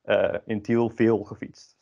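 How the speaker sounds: "in Tiel veel gefietst" said again slowly, "veel" stressed; careful slow correction of "in Tiel veel gefietst". Shown as a demonstration.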